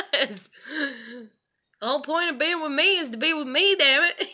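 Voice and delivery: high, loud, fast exasperated yell; angry outburst. Retold or imitated. To her boyfriend who left her sleeping, a loud fast angry yell. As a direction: let the frustration burst out at him.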